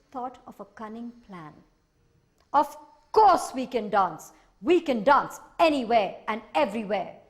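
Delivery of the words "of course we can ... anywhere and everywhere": creature voice. Acted. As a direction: sing it out as a proud tiny sprite. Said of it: "said the Minihos".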